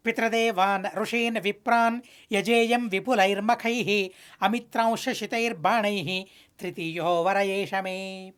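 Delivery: measured, unhurried sacred verse; shloka recitation. Acted. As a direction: draw the verse out like temple recitation.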